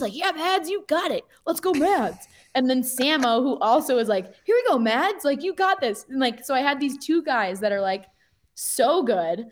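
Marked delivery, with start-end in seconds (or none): 0.1-2.3 high-pitched mock cheer from a friend; retold encouragement. 4.4-6.0 lightly acted, higher-pitched pep talk; retold encouragement. Second friend cheering her on.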